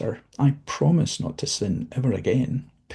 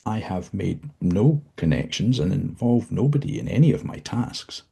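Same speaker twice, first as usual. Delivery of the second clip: higher, stammering, fearful pleading; frightened stammer; 6 semitones higher, 3 dB louder than usual. Acted. Dozzie pleads with the visitor, frightened and stammering. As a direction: stammer out your innocence in fear.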